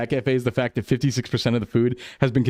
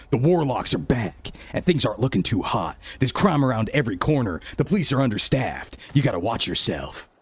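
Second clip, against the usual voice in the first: lightly voiced streetwise hero giving warnings; tough cop character. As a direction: play the self-styled town protector, knowing. Jordicus warns newcomer in character.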